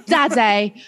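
a hint of cartoon piglet; Peppa Pig. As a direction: playfully mimic a British cartoon child. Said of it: "like, a Peppa Pig impersonation".

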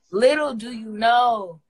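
LITTLE stressed, slow and loud; emphatic slow. Acted. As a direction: lean hard on little, slowly.

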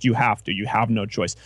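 ordinary talk, nothing marked

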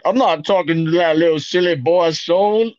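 lightly put-on southern accent. Claiming to be Goofy, accidental southern accent. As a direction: lay on a bit of southern twang. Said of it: "like, a southern accent?".

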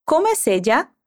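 Como es ella? run together, rising on es; linked question. Shown as a demonstration. Teacher linking the words for the student. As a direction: connect Como es ella? into one flow. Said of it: "Conectando as palavras".

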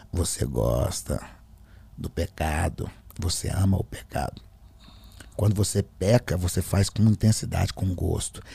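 deep, deliberate taunting; changed, possessed voice. Retold or imitated. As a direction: imitate a demon savouring the accusation. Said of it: "mudou a voz".

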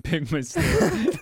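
slow high laughing gloat; laughing smug. Acted. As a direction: drag it out through laughter. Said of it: "and go".

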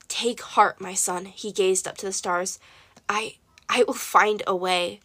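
soft, fading reassurance; tender comfort. Acted. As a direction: comfort the boy, words sinking to almost nothing. Dying father comforts his son.

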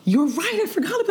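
high gasp of sudden recognition; surprised. Real, not acted. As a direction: react like it just clicked. Gasps at sudden recall.

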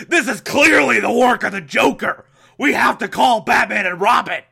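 loud, high, hammed-up alarm; alarmed shout. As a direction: shout it like a campy emergency call. Acted alarm of the commissioner.

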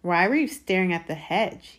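mildly suspicious questioning; a touch of wary accusation. A narrator's reading. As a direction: ask as if smelling a trick. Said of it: "he said suspiciously".

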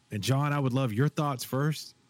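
mock-sincere, lightly sarcastic request. Real, not acted. Host teasingly asks John for his thoughts first, sarcastic. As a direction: ask with understated sarcasm. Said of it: "I say that sarcastically".

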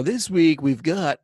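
badly faked cartoon turtle voice; terrible turtle impersonation. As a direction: do a bad cartoon turtle, breaking off. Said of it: "that was a terrible turtle impersonation".

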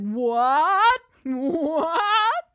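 high, loud, laughing what; hammed-up astonished what; mock surprise. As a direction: play at being shocked. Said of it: "And it's like".

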